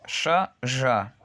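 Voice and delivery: hissed "sha", then buzzing "ya" said as zha; voiceless-voiced contrast. Shown as a demonstration. Teacher contrasts the two consonants for learners, unvoiced then voiced. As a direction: switch voicing on between "sha" and "ya". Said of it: "no hay vibración en mis cuerdas vocales".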